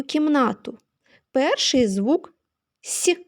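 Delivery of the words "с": soft, palatalised «с» said alone; soft S sound. Shown as a demonstration. Teacher sounding out first sound of the word, soft «с». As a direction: isolate «с» softened as it begins «сік». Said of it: "м'який приголосний".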